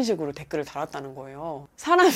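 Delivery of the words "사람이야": high, loud outraged exclamation; real incredulous outrage; indignant disbelief. Real, not acted. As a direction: burst out appalled. Outraged at rude comment she retells.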